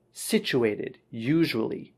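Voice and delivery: situated as SICH-oo-ay-tid, usually as YOO-zhoo-uh-lee; model pronunciation. Shown as a demonstration. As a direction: recap "situated, usually" as separate falling model words. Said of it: "couple of pronunciation things".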